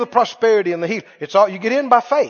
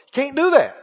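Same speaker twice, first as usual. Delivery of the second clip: ordinary delivery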